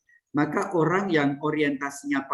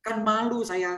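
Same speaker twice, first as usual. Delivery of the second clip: higher, offended whine of a vain sister; pitched-up complaint, mildly hammed; mock proud nun; 4 semitones higher than usual. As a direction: play the wounded pride of a nun losing face. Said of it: "Nah, itu sombong".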